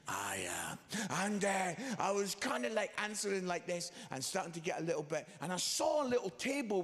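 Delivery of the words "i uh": low, self-important hemming and hawing; mock pompous. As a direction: ponder grandly in a deep, pompous voice. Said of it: "a little bit of a pompous way".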